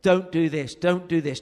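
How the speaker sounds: loud, scolding, hammering each don't; demanding harangue. Retold or imitated. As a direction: rail against the rules, indignant. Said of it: "demanded of Steve Chalke".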